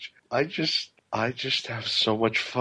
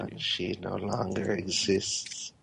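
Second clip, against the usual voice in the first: unearthly voice. Acted. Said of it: "Thanks, disembodied voice".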